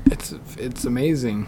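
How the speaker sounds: slow whisper, it's amazing; hushed, drawn-out fake praise; whispered sarcasm. Asked about his job, a slow sarcastic whisper.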